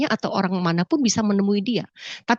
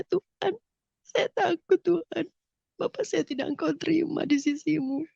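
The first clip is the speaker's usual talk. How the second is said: tearful prayer; 6 semitones higher, 7 dB quieter than usual. Retold or imitated. Frightened tearful prayer retold.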